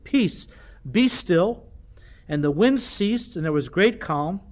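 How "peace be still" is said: higher and louder command; commanding rebuke. Retold or imitated. Preacher voicing Jesus rebuking the wind and sea, loud command. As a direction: order the storm to be still. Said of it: "he rebuked the wind and the sea and said".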